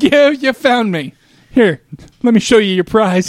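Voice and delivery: slow, high, creepy stranger voice; hammed-up creep welcoming his finder; drawn-out, playfully sinister; creepy flasher. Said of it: "I'll be like".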